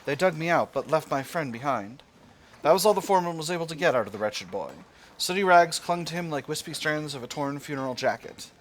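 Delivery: storyteller reading a game event; dramatic event narration. Acted. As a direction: read the tragedy out like a narrator. Reads event story aloud.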